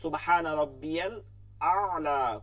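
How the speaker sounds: slow সুবহানা রাব্বিয়াল with long vowels; careful recitation. Shown as a demonstration. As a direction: stretch সুবহানা and আ'লা clearly. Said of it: "খেয়াল করতে হবে". (ধীর শুদ্ধ তিলাওয়াত)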